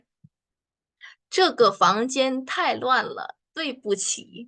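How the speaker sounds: stretched syllable by syllable, very slow; very slow drill read. Shown as a demonstration. Teacher repeats it very slowly so students can copy. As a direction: drag each syllable out for learners.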